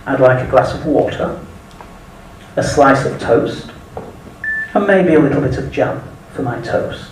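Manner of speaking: put-on polite, proper English accent ordering. Ordering in a cafe in Phoenix, charming English accent. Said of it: "I said".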